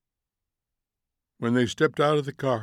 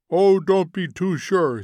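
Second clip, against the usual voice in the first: mildly argumentative higher voice; doubtful retort; 6 semitones higher, 5 dB louder than usual. Acted. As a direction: push back, a bit loud and high. Relatives arguing in wall play.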